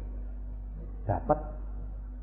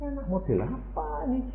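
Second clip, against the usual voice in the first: mock father's retort; 9 semitones higher, 8 dB quieter than usual. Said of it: "bapaknya bilang apa?".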